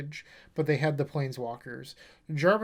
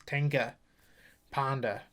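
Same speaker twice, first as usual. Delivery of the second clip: Boston-style open, R-less endings; Boston accent. Shown as a demonstration. Showing viewers how Boston says the deck name, Boston accent. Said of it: "say it like you're from Boston".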